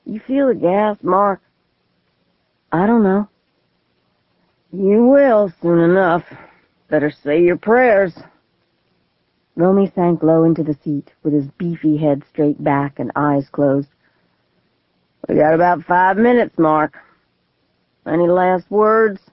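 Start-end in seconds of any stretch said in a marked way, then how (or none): 0.1-8.2 put-on menacing drunk man. Gunman taunts the boy. 15.3-19.2 put-on menacing drunk man. Gunman taunts the boy.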